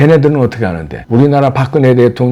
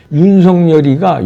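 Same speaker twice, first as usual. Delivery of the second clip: slow, drawn-out dismissive "윤석열이가"; mocking quote; 5 semitones higher than usual. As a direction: sneer "윤석열이가" slowly, as the anchors do. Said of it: "윤석열 씨가 이렇게 부르더라고요". (비꼬듯 느리게 "윤석열이가")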